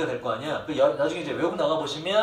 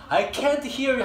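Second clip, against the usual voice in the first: mock deaf complaint; 8 semitones higher, much slower than usual. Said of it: "귀가 먹었다".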